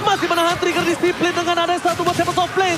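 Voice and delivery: loud, high, rising hype; excited play-by-play. Real, not acted. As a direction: call the fight at full energy. Caster calls teamfight.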